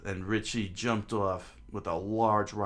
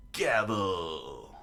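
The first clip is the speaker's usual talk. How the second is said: shouted attack name; 3 dB louder than usual. Acted.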